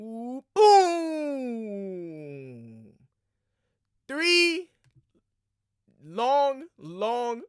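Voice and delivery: loud, high-pitched hype yell; excited shout. Real, not acted. Fan cheering Caitlin's long-range threes, loud excited yelling. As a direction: holler each word as the threes fall.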